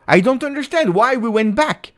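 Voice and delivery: high, indignant disbelief; exasperated complaint. Real, not acted. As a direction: complain loudly at the pass back. Fan streamer protesting team going back.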